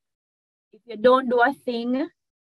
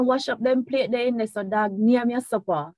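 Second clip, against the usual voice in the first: parent warning; 3 semitones higher than usual. Retold or imitated. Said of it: "how parents would".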